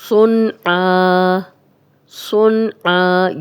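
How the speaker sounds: صُنْعًا with a thick ص, no ghunnah; slow tajweed drill; heavy sad. Shown as a demonstration. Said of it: "صاد کو موٹا پڑھیں گے".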